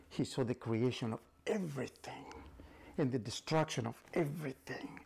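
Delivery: awed hushed narration; whispered storytelling. A narrator's reading.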